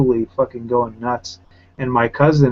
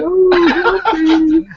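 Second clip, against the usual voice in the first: imitating a panicked man whimpering for help, much higher and louder; mock crying whine; 6 dB louder than usual. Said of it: "He's crying and whining".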